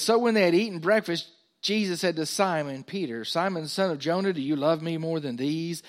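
emphatic pulpit reading; scripture reading. Acted. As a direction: read the verse out to the congregation.

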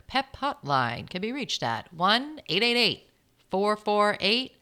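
slow, deliberate radio announcer read; old radio host. Pretend. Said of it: "Did I sound like an old radio host there?".

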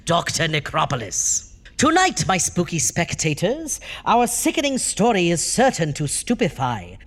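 hammy horror host, sing-song and gleeful; jack o lantern voice. Acted. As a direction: relish every spooky alliteration. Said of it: "I am your hideously hair-raising host, Doctor Necropolis".

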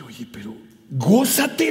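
slow hushed whisper; whispered comfort. Retold or imitated. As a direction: breathe it gently to the boy. Pastor comforts crying boy, quoted.

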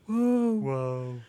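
put-on bored little kid whoa; unenthusiastic child voice. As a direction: whoa with no excitement at all. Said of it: "the most unenthusiastic child voice".

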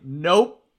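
loud laughing game voice, slow on actually; laughing mock voice. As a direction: laugh through the game's taunt.

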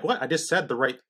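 quick, defensive retelling of his own words; a hint of indignant dad; mock defensive protest. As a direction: rattle it off as if wronged. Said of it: "my tone sounded sarcastic. It sounded rude".

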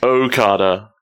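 "Okada" opening on a clear "oh"; Okada with long O. Shown as a demonstration. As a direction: demonstrate "Okada" with O as in go. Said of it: "They're just saying Okada".

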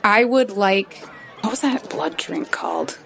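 lightly affected, careful diction; measured formal put-on voice; Boa's disguise voice. Disguised diner begins to order from the waiter, lightly affected voice. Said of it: "Nyx was talking like that".

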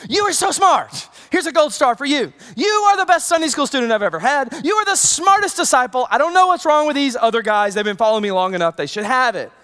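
mock praise. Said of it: "Did Jesus go".

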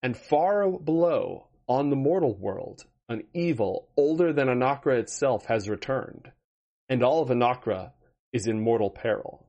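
measured, dramatic recap read; story narration. Acted. Dungeon Master recaps the campaign for the audience, dramatic narration. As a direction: set the scene like an epic storyteller.

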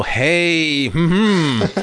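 long drawn-out mock call; mock stage yell. Podcaster imagines someone up on stage calling out, mock yell. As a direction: pretend to holler it from a stage, without real volume. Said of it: "up on stage and yell".

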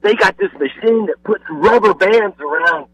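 lightly voiced excited sons; excited kids. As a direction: imitate the boys telling Dad what they saw, slowed on the machine part. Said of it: "and they said".

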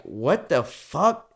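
drawn-out, incredulous retelling; slow, baffled reaction; retold disbelief. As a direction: stretch it out slowly in mock disbelief. Retelling his own baffled reaction.

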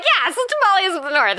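tired, giddy mock-enthusiastic take; mock breezy. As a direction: play along with your own silly tagline. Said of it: "So I'm just like".

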